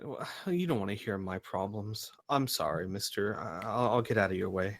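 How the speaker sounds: softly holding back tears; a kid trying not to cry. Acted. Tearful kid apologizing.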